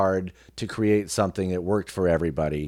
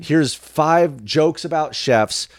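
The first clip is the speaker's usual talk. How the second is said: higher and louder, a cheesy event host; hammed-up host opening a cooking contest; mock event MC; 6 semitones higher, 3 dB louder, much slower than usual. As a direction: do a canned emcee welcome. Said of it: "it's like".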